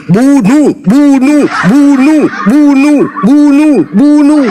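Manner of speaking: high, punchy repeated chant; acted loud shouting. Preacher imitating the loudest front-row Christians, acted mob shout. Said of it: "Paling keras, paling depan teriak".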